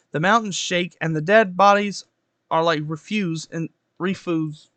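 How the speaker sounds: measured Bible reading aloud; projected, even read-aloud delivery; scripture reading. Acted. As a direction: read the verses out with deliberate phrasing.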